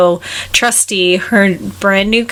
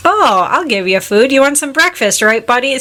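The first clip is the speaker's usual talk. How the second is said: friendly chef voice; 5 semitones higher than usual. Retold or imitated. Chef greets stray dog, acted.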